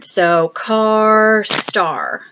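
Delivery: car, star said as a matching pair; rhyme emphasis. Shown as a demonstration. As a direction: show the rhyme by stressing car then star. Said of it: "those rhyme".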